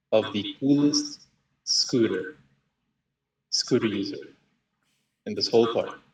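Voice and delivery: lightly hammed-up silly proclamation in short pieces; whimsical, corny. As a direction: play it a bit corny, pausing between phrases. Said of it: "whimsical in a, in a, like, corny way".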